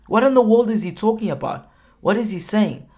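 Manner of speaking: preacher pressing the congregation on the verse, puzzled; puzzled exclamation. Real, not acted. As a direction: throw up the voice in mock confusion. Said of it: "rhetorical puzzlement".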